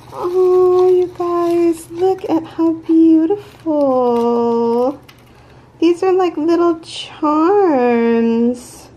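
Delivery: high, loud, drawn-out coo of delight; overjoyed gushing. Real, not acted. Showing followers the little charms she was sent, overjoyed gushing. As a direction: gush over it in a high, stretched voice. Thrilled on opening a gift.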